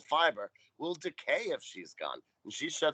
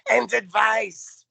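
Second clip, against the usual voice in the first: high, loud and stretched out slowly, mimicking a kid; mocking Tootie's nagging; 10 semitones higher, 9 dB louder, much slower than usual. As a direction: drag out "And advice" like a whiny broken record. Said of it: "sixteen times".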